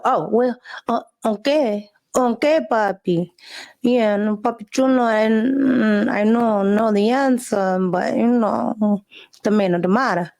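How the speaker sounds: hesitant, lightly put-on Latino accent; mock Latino accent. Candidate dodging a Latino voter's question, mock Latino accent. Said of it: "And now she's like".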